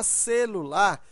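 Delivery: "celular" measured out in syllables. Shown as a demonstration. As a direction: say "celular" as ce-lu-lar, evenly spaced. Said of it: "qual é a sílaba mais forte?".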